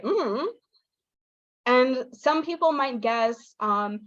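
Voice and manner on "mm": high hum that swoops; closed-mouth hum with a big pitch swing; intoned "mm", mouth closed; American non-word hum. Shown as a demonstration. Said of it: "I say".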